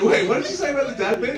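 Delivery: high, loud, quick mock-curious ask; retold quick question. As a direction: pounce on the slip, fast. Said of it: "I was like".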